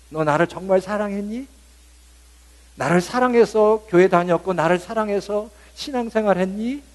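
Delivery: high, loud searching question from God; voicing God. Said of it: "이렇게 물어보실 것 같아요". (하나님 목소리로 높게 묻기)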